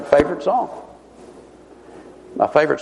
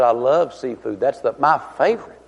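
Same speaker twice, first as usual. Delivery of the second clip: lightly mock-pious reply; understated churchy earnestness, played for laughs; most spiritual voice. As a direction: answer with a touch of put-on reverence. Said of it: "In my most spiritual voice".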